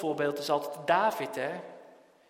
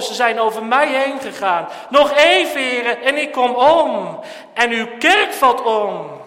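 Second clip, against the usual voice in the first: desperate prayer cry; 5 semitones higher, 12 dB louder than usual. Acted. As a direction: cry out to the Lord, rising from a murmur to full force. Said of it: "en te zeggen".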